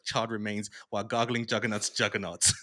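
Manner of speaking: loud ranting comic villain read; loud quote reading. Retold or imitated. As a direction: rant it out like a trash-talking hero. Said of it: "I have it here somewhere".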